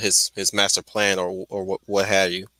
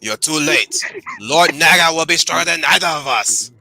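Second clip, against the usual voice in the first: Sith lord voice; 3 semitones higher than usual. Pretend. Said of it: "Master Yoda".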